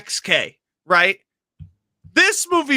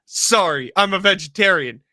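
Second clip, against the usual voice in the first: quoting movie line; 3 semitones lower than usual. Retold or imitated. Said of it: "we say that".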